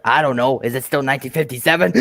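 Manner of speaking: lightly voiced weary engine character; a hint of a character voice; Henry. Quoting the engine stuck in the tunnel, light impression. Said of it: "How's my impression of Henry".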